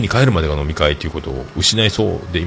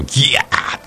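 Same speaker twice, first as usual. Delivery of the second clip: drawn-out mock shriek of disgust; mock scream; 5 semitones higher, slower than usual. Sister sniffing her brother's smelly hand, mock shriek. 姉が匂いで叫ぶ再現.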